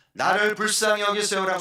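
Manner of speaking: loud, high desperate cry; shouted plea. Shown as a demonstration. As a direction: cry out with everything you have. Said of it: "소리를 질렀을까요?". (높고 크게 절규하듯 외치기)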